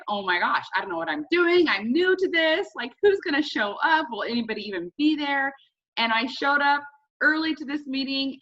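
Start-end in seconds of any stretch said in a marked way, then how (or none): 0.1-5.5 high, loud, anxious rush of worry; retold jitters, voice jumping up and louder; nervous panic. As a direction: replay the pre-meeting panic, pitched up and loud. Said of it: "came on the nerves 'cause I was just like".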